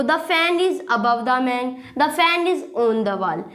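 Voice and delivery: each word slow and separate, dictating to a class; slow teacher dictation; slow model sentence. Shown as a demonstration. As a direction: spell it out slowly like a teacher. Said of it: "इसके अंदर difference क्या".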